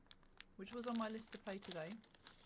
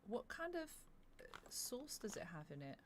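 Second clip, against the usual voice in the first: whispering. Real, not acted. Whispered question.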